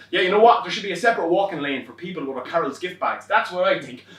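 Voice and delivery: matey agreement. Retold or imitated. Appeasing driver.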